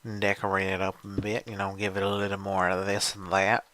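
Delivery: lightly hammed-up voice for a fancy makeover; put-on fancy voice. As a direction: draw it out in a playful put-on voice. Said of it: "I don't know why I'm talking like this".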